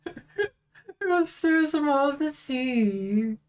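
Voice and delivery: slow, high, whiny half-cry; mock whimper. Real, not acted. Whiny repeat, cry heard.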